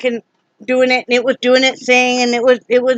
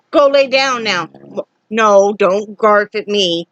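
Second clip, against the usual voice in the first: stern scolding; slower than usual. Real, not acted. Owner ordering her barking dog to lie down, stern. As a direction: put the dog in its place.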